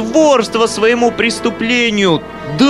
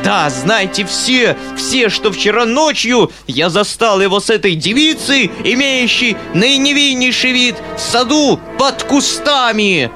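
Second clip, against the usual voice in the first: squealing; 9 semitones higher than usual. A narrator's reading. Foma squeals his threat at the uncle. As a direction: proclaim the scandal to all. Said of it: "визжал Фома".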